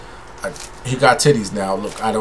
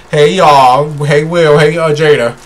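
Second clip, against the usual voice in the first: mock cheerful greeting; 6 dB louder than usual. Mock greeting to Will and Jada.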